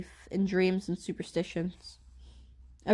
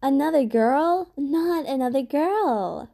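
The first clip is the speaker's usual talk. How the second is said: slow, higher, louder dismayed bellow; mock her papa's dismayed roar; half-mocking imitation of an upset father; 5 semitones higher, 5 dB louder, slower than usual. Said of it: "bellowing out".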